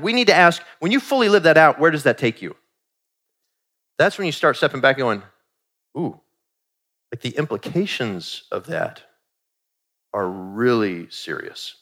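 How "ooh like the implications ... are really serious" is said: sobered realization. Retold or imitated. Realizing the implications of culture.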